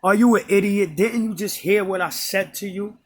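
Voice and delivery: hint of an irritated old woman snapping back; imitating attitude. Old lady scolding the beggar, with mild attitude. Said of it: "she said it with an attitude like".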